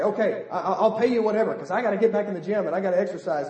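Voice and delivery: laughing through it, fast and eager; hurried, laughing yes to the deal; laughing eager customer. Retold or imitated. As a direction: chuckle while gushing you'll pay anything. Eager gym customer voiced.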